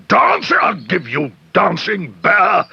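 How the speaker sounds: climbing fury of disbelief; rising outrage. Acted. Mr Curry outraged at Paddington.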